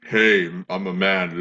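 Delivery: very deep, very slow, drawn-out low voice. Voice warm-up comparing low and middle voices, demonstrating the low voice. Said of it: "low voice".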